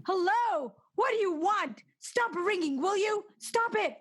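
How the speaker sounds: high, strained stop it; hysterical plea. Acted. Terrified wife shouting at the ringing phone, high hysterical plea. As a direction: beg the ringing to end.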